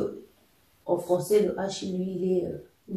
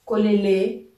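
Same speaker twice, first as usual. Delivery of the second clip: KOLELE louder, rising at the end; question intonation; 7 dB louder than usual. Shown as a demonstration. Teacher showing learners the question "kolele", rising intonation. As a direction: ask "kolele" as a question, voice lifting on the last syllable. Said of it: "c'est une question".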